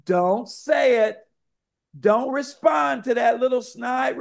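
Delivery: inner voice rising from a mild warning to a high shout. Retold or imitated. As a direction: build the inner warning until it is nearly shouted. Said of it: "you hear that voice inside your head saying".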